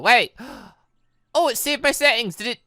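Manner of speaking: ordinary talk, nothing marked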